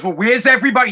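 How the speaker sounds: mildly irritated father repeating his question; retold angry demand. Father demanding to know about son's friends, mildly mad. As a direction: imitate a dad getting mad. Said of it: "He got all mad".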